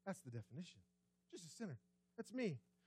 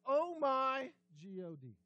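casual exclamation; 2 semitones higher, 6 dB louder, slower than usual. Retold or imitated. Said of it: "so casually and say".

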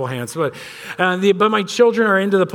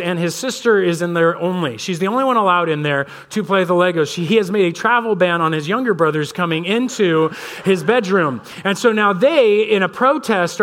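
ordinary talk, nothing marked

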